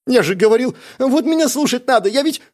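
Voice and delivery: high, loud gleeful gloat; gloating Gnots. Acted. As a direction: crow over Gorok. Gnots gloats, then cut off.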